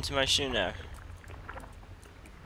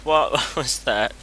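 laughing repeat; 4 dB louder, much slower than usual. Real, not acted.

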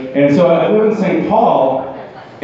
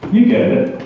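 hushed, a little higher, said like a shared secret; knowing whisper; 6 semitones higher than usual. Acted. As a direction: lean in and whisper it to the crowd. Knowing aside to the audience.

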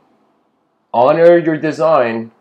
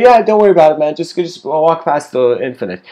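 louder easygoing dude voice; laid-back, shrugging; 4 dB louder than usual. Acted. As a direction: wave off the worry casually. Logos voiced in parable.

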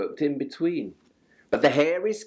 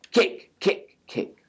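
plain reading voice

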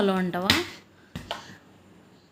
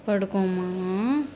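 gentle coaxing; 3 semitones lower, slower than usual. Real, not acted. Coaxing the child to sleep.

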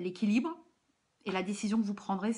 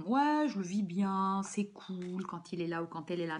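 imitating feigned nonchalance, drawn-out start; mock casual cool. Reader imitating viewers who hide their suffering, mock casual. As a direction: play it too cool, stretching the first words. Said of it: "Vous la jouez trop".

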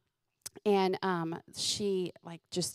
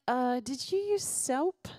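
questioning mom; 4 semitones higher, slower than usual. Retold or imitated. Mother questioning son in retelling.

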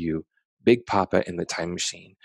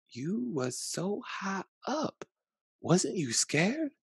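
put-on much higher, slow awed child; a grandchild gazing up in wonder; softly voiced amazed child; child's voice; 11 semitones higher, 8 dB quieter, much slower than usual. A narrator's reading. Child voice in story.

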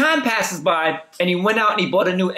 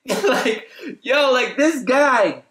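laughing; 4 semitones higher, much slower than usual. Real, not acted. Laughing at friend's mistake.

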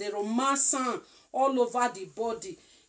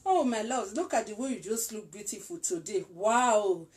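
sweet talk to a lover. Shown as a demonstration. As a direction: coo it gently to your woman. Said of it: "So just do it like this".

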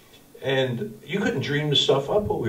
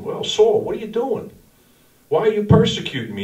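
1 voice of God; 9 semitones higher than usual. Acted. Voicing God speaking to Saul.

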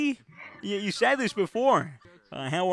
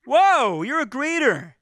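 higher, louder burst of mock shock; shocked whoa; 7 semitones higher, 7 dB louder, much slower than usual. Visitor reacting to the greeter's insult, shocked. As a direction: gasp at the rude greeter.

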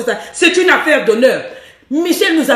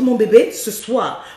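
tender and slow; 3 semitones lower, slower than usual. Shown as a demonstration. Coach showing the right way to call a husband, tender. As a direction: purr "Mon bébé, ce soir" gently and lower. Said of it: "Non, on dit".

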